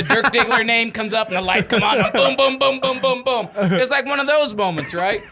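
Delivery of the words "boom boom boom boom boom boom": imitated booms. Imitates film's flashing-lights music.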